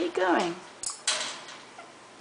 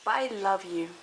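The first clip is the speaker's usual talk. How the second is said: tender goodbye; 3 semitones lower than usual. Real, not acted. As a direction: linger lovingly on each word. Saying goodbye to her bird.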